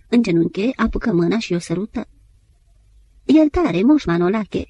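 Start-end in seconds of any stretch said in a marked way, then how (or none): 3.2-4.6 moved exclamation. Acted. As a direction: beg pardon, overcome. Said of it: "exclamă emoționat".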